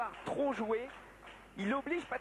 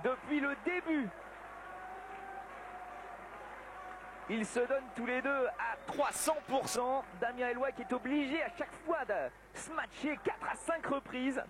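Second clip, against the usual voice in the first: excited commentary; 5 semitones higher than usual. Real, not acted. Commentator heats up at tight finale.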